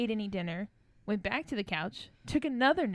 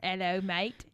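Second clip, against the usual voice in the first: mock British greeting; British accent; 3 semitones lower, slower than usual. Host practicing for a London trip, mock British accent. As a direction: put on a playful British accent. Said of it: "practicing our, um, British accents".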